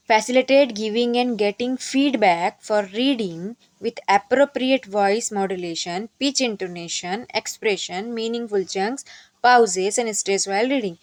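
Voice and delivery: reads the English point out very slowly, word by word; slow dictation reading. Acted. Teacher reading the training point aloud to trainees, slow and deliberate. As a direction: spell out the point slowly, as if for notes.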